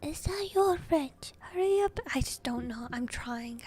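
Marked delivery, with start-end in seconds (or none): 0.0-2.0 high, loud Scottish call; Scottish accent. Acted. Gamekeeper hurrying caretaker, loud high Scottish accent. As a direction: holler it in an attempted Scottish accent. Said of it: "He had a Scottish accent".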